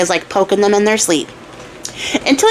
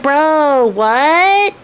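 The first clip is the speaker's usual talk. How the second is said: a surprised, slightly raised "what"; stunned; 5 semitones higher than usual. Retold or imitated. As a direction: caught off guard by the tailor. Soldiers stunned seeing tailor return.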